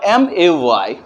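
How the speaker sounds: slow letter-by-letter spelling. Shown as a demonstration. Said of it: "लेकिन हमें बोलना है मे".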